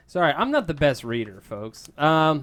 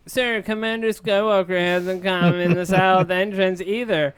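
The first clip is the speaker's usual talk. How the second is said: anxious; 6 semitones higher, 5 dB louder than usual. Acted. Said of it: "he says anxiously".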